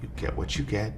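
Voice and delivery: soft whispered singsong; father whispering the snack rule; whispered rhyme to daughter. Retold or imitated. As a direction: hush it like a parent's rule. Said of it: "I say".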